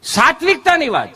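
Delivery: hammed-up holy man preaching simplicity; mock preacher. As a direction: preach it like a pompous guru.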